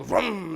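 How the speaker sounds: short engine vroom; imitated passing engine. Father describing the video, imitating the engine vroom. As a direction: mimic an engine going by. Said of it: "and it gets louder".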